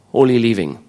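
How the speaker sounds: holy with a silent H, oly; French accent, no H. Real, not acted. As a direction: say holy living dropping the H. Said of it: "There's no H".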